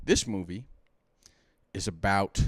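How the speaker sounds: tipsy, drinking while talking. Real, not acted. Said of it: "We're concerned for our buddy".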